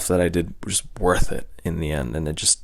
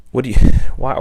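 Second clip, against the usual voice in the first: laughing; 5 semitones higher, 8 dB louder, much faster than usual. Retold or imitated. Laughing mid-quote at dad's words.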